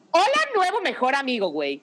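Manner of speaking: high, bright-eyed hello to a new best friend; excited greeting. Retold or imitated. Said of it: "Y yo".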